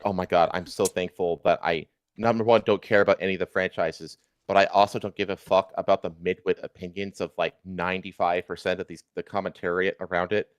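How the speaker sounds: normal talking voice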